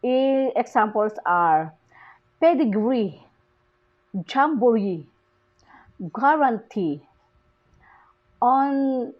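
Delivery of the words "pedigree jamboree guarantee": "pedigree, jamboree, guarantee" with stress on each final "ee"; stress on last syllable. Shown as a demonstration. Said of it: "are stressed on the last syllable".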